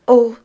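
loud, high acted "oh"; simple childish exclamation; childlike sigh. A narrator's reading. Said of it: "avec un gros soupir d'enfant".

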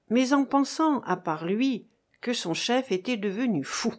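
usual speaking voice

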